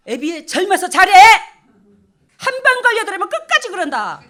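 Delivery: loud, high scolding of a son; acted stern warning. Parent warning married son to behave while young, loud urgent scolding. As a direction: hammer it home at full volume.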